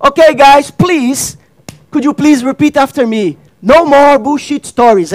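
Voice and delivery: calling to the crowd. Retold or imitated. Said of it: "and I'm like".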